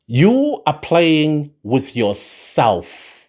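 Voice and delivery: each word slowed right down and weighed; slow emphatic. Shown as a demonstration. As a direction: spell it out slowly, like a warning. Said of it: "It's all that I'm going to say".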